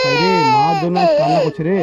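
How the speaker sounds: high tearful pleading; choked up comforting. Real, not acted. Vlogger comforts the orphan girl, voice breaking with tears. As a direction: beg them to stop crying while crying yourself. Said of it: "vlogger weeping over child".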